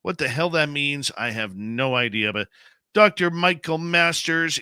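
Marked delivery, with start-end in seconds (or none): 2.9-4.6 loud, slow announcer name; announcer call-out. Real, not acted. Host announcing guest sign-off.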